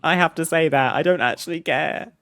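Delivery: exasperated. Real, not acted. Admitting the script is fake.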